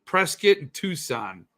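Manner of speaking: Prescott as PRESS-kit, Tucson as TOO-sahn; reduced Prescott ending, silent c in Tucson; local place-name pronunciations. Shown as a demonstration. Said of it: "you gotta say Prescott".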